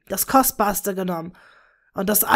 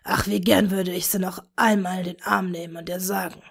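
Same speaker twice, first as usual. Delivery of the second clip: wistful whisper. A narrator's reading. Tom to Bella, mourning their lost daughter, wistful whisper. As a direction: murmur it like a grieving father. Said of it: "flüsterte wehmütig".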